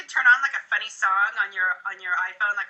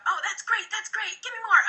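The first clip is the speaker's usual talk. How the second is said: higher, bright praise; encouraging; 10 semitones higher than usual. Shown as a demonstration. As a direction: cheer them on. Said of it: "I'll go".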